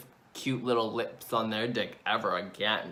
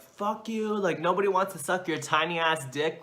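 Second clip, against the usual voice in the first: retold screaming; 6 semitones higher than usual. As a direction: act out screaming at him without the volume. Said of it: "basically was just screaming at him".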